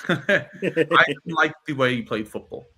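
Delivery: slow, laughing repeat for emphasis; laughing emphatic repeat. Real, not acted. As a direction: lean on it slowly through a chuckle. Repeats line slowly, laughing.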